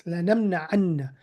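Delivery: lanamna'anna slowed, with the doubled nun held; emphatic form. Shown as a demonstration. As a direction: draw out "lanamna'anna", pressing the double n. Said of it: "like, with emphasis".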